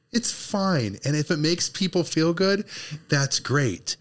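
a light touch of a Sunday school teacher; lightly voiced gentle churchy scolding; sweet patient Sunday school voice. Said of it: "I'm gonna use my best Sunday school voice".

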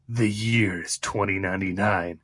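dramatic movie trailer narration; booming trailer voice-over; announcer voice. Shown as a demonstration. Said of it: "Let me get my announcer voice".

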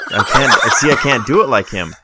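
laughing through the words; breaking up laughing. Real, not acted. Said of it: "That was so close".

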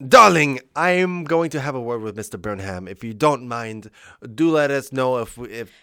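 stagey husband taking charge; loud opening, then a measured theatrical request; lightly voiced husband. Husband asking his wife about dinner, lightly theatrical.

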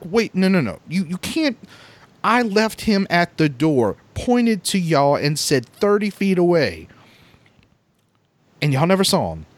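high, pleading insistence; frantic protest. Retold or imitated. Insisting to sister-in-law that dad was right there, frantic protest. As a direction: insist as if nobody is listening.

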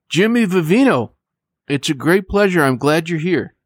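measured, scripted announcer delivery; radio host introduction. Acted. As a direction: present the guest like a radio host, phrase by phrase. Host resumes the guest introduction.

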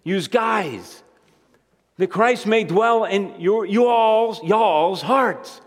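a light Southern drawl on "y'all's hearts". Shown as a demonstration. Preacher showing how the South would say the verse, light Southern accent. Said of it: "they say in the South".

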